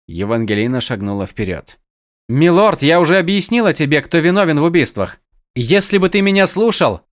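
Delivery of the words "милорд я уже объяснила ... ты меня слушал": higher, louder, fast protest; urgent pleading. Acted. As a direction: argue fast and heated. Евангелина горячо спорит с лордом. (горячая, быстрая мольба)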